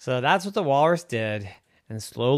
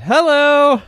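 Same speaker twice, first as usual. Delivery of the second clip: cheery high greeting; 12 dB louder than usual. Acted. Friendly walrus greets.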